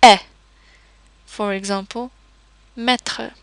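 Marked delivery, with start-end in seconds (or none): 0.0-0.2 eh as a short open vowel. Shown as a demonstration. Teacher demonstrating unaccented E, a clear open eh. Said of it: "we would pronounce it as". 2.8-3.3 maître with an open eh vowel. Shown as a demonstration. Teacher giving example, maître with open E. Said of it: "we would pronounce it as".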